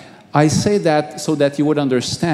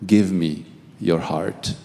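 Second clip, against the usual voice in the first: lower, softer and calm; gentle Jesus voice; 9 semitones lower, 5 dB quieter than usual. Retold or imitated. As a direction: answer him gently, as the Lord. Jesus speaks in vision.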